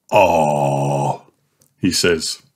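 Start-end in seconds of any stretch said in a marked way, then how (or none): 0.1-1.2 open-mouthed ah. Acted. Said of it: "Open wide and say".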